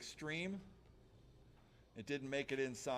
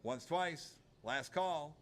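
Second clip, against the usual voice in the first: auctioneer. Acted. Auctioneer calling bids.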